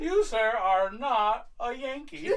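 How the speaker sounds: hammed-up, slowing to the last word; mock accusation. Viewer challenges the fake American, mock-formal accusation. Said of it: "you're just like, I don't buy you're an American".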